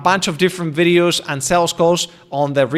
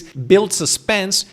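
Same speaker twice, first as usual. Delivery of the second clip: slow pause demo; much slower than usual. Shown as a demonstration. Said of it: "practice using strategic pauses".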